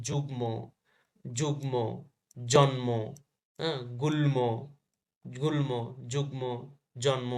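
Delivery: যুগ্ম, জন্ম, গুল্ম each with a clear final mo; ম sounded. Shown as a demonstration. Teacher lists examples for students, sounding ম in যুগ্ম, জন্ম, গুল্ম. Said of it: "ম ফলায় ম এর উচ্চারণ বজায় থাকে".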